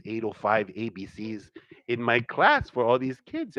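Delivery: ordinary talk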